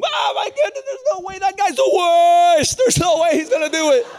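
high, shouted disbelief; imitated uproar. Students reacting to the chosen guy, imitated uproar. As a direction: screech it like a scandalised teen crowd. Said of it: "I lost the room".

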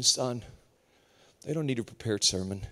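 low, soft, unhurried fatherly reassurance; kind voice of God. Acted. God to the nervous preacher, kind low voice. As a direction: speak very low and tender, leaving pauses. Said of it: "It's nicer than you".

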